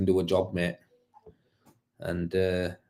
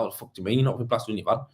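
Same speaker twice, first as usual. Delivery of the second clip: fast incredulous rant; 4 dB quieter, much faster than usual. Retold or imitated. Plasterer to his worker, fast disbelieving rant. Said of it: "I'm like".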